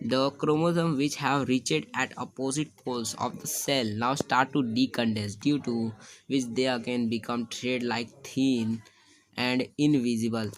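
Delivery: reading the textbook line out word by word, very slowly; slow dictation. Shown as a demonstration. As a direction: dictate it slowly so students can write. (धीमे-धीमे notes लिखवाते हुए)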